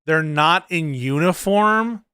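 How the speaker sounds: slow, stretched-out repeat in disbelief; incredulous echo. Real, not acted. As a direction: draw the claim out as if absurd. Echoes the clip's claim in disbelief.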